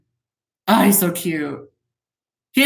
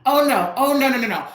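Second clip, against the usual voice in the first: surprised oh no; 6 semitones higher than usual. Real, not acted. Catching a mistake.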